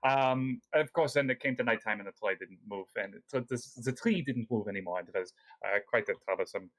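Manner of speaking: lightly voiced El Romior, polite host; lightly voiced scholar NPC. El Romior's long in-character explanation.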